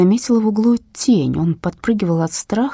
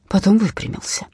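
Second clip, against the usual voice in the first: ordinary delivery, nothing marked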